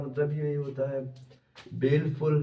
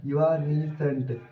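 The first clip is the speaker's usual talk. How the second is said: broken into parts; much slower than usual. Shown as a demonstration. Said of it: "आप इसको break करके पढ़िए".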